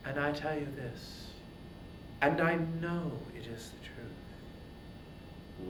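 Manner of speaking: hushed divine authority; calm goddess. Acted. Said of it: "the goddess Athena answered".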